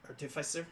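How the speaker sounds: "artificer" said the co-host's way, rising at the end; imitated pronunciation. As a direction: mimic a friend's way of saying "artificer". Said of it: "'cause of how you say".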